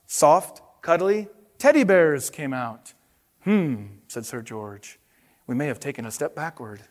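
expressive picture-book narration; storybook read-aloud with paced reveals; reading to children. Acted. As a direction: tell it to the kids like a bedtime storybook.

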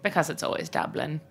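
put-on soft Irish accent on "Because it's always Dublin"; punchline in a hammed-up Irish accent; terrible Irish accent. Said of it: "speaking in this terrible Irish accent".

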